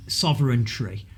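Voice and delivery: "sovereignty" said as "sovereign-tree"; "sovereignty" mimicked with a "-tree" ending; mocking mispronunciation. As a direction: put an extra r in the last syllable of "sovereignty". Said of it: "as the Brexit lot say".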